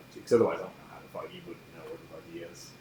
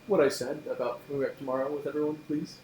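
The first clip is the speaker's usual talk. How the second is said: higher and louder, spelled out clearly; louder repeat; 8 semitones higher than usual. Acted. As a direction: say it again so they hear. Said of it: "Roll what now?".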